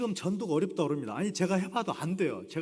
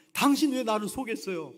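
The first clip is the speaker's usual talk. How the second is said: angry; 5 semitones higher, 5 dB louder than usual. Retold or imitated. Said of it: "해리가 막 화를 내요".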